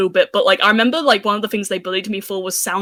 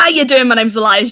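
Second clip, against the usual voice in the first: streamer voice; 3 semitones higher, 5 dB louder than usual. Pretend. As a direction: keep the streamer persona going. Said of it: "I've got to do the streamer voice".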